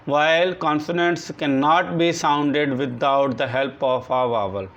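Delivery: very slow, word by word, for copying down; slow dictation. Shown as a demonstration. Teacher dictating a definition to the class, slow and deliberate. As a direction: dictate each word so the class can write it.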